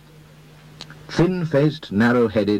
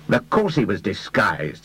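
slow, impatient, a bit higher; mild irritation, slow and testy; irritably; 3 semitones higher, slower than usual. Acted. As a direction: snap it back, annoyed. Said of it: "said the other irritably".

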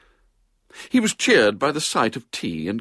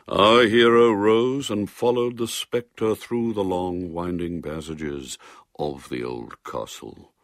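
reading aloud. A narrator's reading. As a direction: build it, then let it fade away. Reading a ghost story aloud.

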